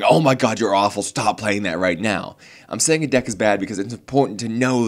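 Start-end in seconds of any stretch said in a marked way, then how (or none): 0.0-2.4 imitating someone yelling at a player; mock yell. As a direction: play the yelling critic, half-hearted. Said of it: "I'm not yelling at the person going".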